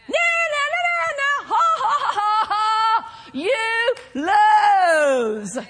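high taunt sliding into gloating laughter; childish mocking. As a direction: jeer like a child, then draw out the last words loudly. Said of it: "He doesn't act adult about it".

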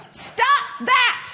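high, punchy command; stern interruption. Acted. Holy Ghost interrupting a bill worrier, stern high command. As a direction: cut in sharply to halt the worrying. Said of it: "And the Holy Ghost says".

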